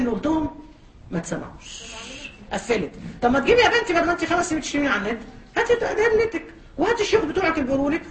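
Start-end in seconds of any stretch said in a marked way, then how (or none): 3.2-8.0 laughing challenge. Real, not acted.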